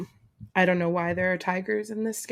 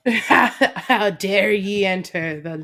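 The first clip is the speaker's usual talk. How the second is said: put-on Scottish accent; 7 dB louder, slower than usual. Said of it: "speak with a Scottish accent".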